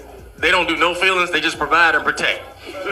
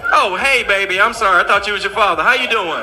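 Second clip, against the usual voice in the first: sudden sweet mama. Retold or imitated. Mama switches sweet for son.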